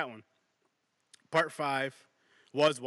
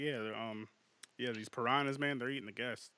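casual; 3 semitones lower, 5 dB quieter than usual. Retold or imitated. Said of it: "like a casual com".

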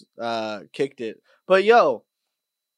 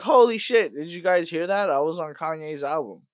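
raised, excited burst settling down; excited boast; 2 semitones higher than usual. Pretend. Telling friends he got sampled on a rapper's album, mock excited boast. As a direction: pretend you're amazed to be on it. Imagined bragging about being sampled.

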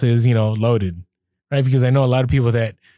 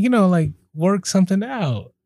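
hammed-up suggestive; 6 semitones higher than usual. Shown as a demonstration. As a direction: ham up the hint, dancing a little salsa. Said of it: "I didn't say it like this".

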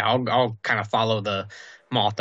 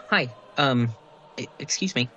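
timid, hesitant approach; a hesitant, halting greeting, gently timid. Acted. Newcomer approaching a stranger in the chapel, timid. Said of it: "just kind of timidly, very timidly".

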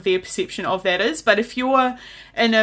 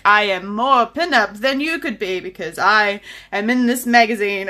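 mock-superior quote with leaning emphasis; elitist boasting. Host mocking people who flaunt magazine features, mock elitist. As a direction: imitate someone bragging of their status. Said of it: "a weird sort of elitist".

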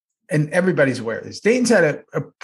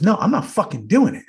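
lightly imitated stubborn refusal; slightly raised, mock-defiant cursing; Dayton; 5 semitones higher than usual. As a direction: play a balking colleague. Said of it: "You know the way he talks".

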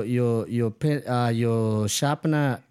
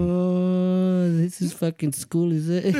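sarcastic; 5 semitones higher, slower than usual. Retold or imitated. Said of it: "I'm like".

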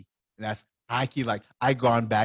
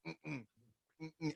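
closed-mouth refusal; 4 semitones higher, 16 dB quieter than usual. Retold or imitated. Imitates Mustang refusing while snapping.

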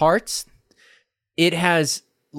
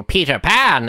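tag villains. Acted. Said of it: "the villains are like".

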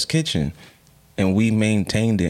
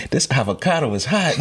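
quoting through laughter; laughing quote; 4 semitones higher than usual. Retold or imitated. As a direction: laugh through the uncle's words. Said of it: "her uncle was like".

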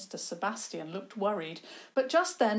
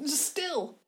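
put-on eccentric old man; 7 semitones higher than usual.

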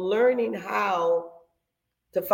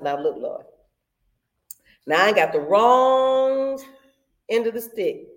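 blunt prayer; 3 dB louder than usual. Retold or imitated. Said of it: "me and the Lord talk like this".

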